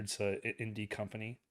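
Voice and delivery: dry, deadpan sarcasm; sarcastic. Acted. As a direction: say it with a straight face, not meaning it. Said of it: "I'm being very sarcastic".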